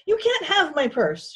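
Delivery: high, loud plucky refusal; bold defiance. A narrator's reading. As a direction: defy them in Pearl's high voice. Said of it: "surprised at her own boldness".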